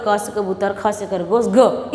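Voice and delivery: low, rote run through the alphabet; finger-counting recitation. Retold or imitated. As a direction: mimic a pupil counting up to the letter. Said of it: "इस तरह से बोलते हैं उंगलियों पे गिन गिन कर".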